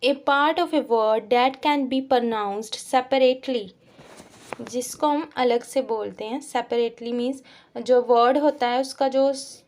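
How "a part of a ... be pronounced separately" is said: each word read out very slowly; slow, deliberate reading of the question; slow dictation. Shown as a demonstration. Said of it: "teacher reads question slowly".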